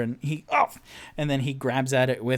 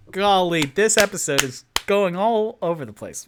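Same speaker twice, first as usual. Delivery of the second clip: higher, louder gleeful aside; delighted excitement; 6 semitones higher, 7 dB louder than usual. Real, not acted. GM delighting in the episode's chaos, gleeful. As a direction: revel in the chaos.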